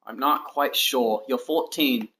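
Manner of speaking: unplanned put-on accent with dropped R's. Streamer puzzling over a viewer's age, in a put-on accent. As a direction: slip into a put-on accent, R's softened away. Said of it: "I don't know why I didn't accent there".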